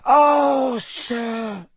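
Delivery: squeaky house elf. A narrator's reading. House elf shakes her head at Harry, squeaking. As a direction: start loud and high, then sink on the title. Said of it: "a teeny quivering squeak of a voice".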